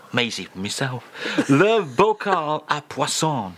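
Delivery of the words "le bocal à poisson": slow, measured French phrase reading; showy French read-out. Shown as a demonstration. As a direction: savour each French word slowly. Host reads French phrase out showily.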